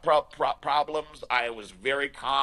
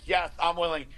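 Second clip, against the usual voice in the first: a touch higher, clearer yes; repeated for her to hear; 4 semitones higher than usual. Retold or imitated. Repeating it after she says she didn't hear, a bit higher. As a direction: say it again so she can hear it. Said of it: "I didn't hear you".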